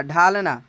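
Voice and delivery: "ढालना" said whole after the split; clear model word. Shown as a demonstration. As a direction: put the word back together clearly. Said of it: "ढालना या फिर डालना". (पूरा शब्द "ढालना" साफ़ बोलना)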